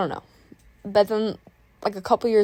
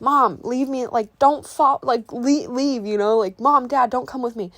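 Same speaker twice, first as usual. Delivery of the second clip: put-on embarrassed kid; 4 semitones higher than usual. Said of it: "You get embarrassed".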